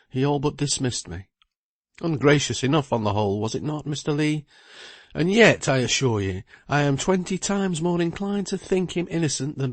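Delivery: lightly voiced lawyer, a little worried; lawyer Bridgenorth.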